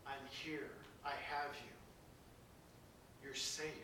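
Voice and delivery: soft, hushed comforting father; tender murmur into a child's ear; gentle whisper. Retold or imitated. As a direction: whisper it like holding a scared child. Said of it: "and whisper in your ear".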